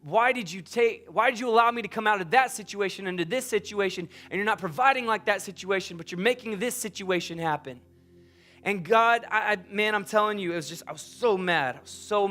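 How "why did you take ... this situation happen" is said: retold frustrated questioning, voice a bit raised; imitating exasperated demands for an answer; mad at God. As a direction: act out a mad, stumbling complaint to God. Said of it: "I'm so frustrated at God, going".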